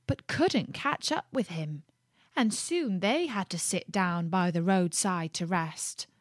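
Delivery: put-on gentle read-aloud to children; lightly paced fairy tale reading; storybook narration. A narrator's reading. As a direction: tell it like a bedtime tale.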